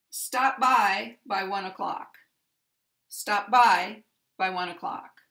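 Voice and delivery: first "by" stressed, second "by" light; stress on the particle. Shown as a demonstration. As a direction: hit the first "by", pass lightly over the second. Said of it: "does not have stress, and this has stress".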